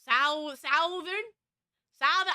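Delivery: "Southern" with 'ow' as in "south"; varied pronunciation. Shown as a demonstration. Showing chat the many ways, "Southern" said "SOW-thern". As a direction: stretch "Southern" into "SOW-thern", rising like a question. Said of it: "I can say it as many different ways".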